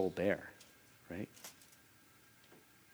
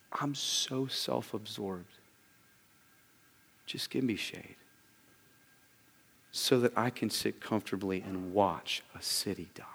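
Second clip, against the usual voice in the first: hushed Jonah voice; 4 dB quieter than usual. Acted. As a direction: murmur it like a self-absorbed man. Voicing Jonah's selfish thought.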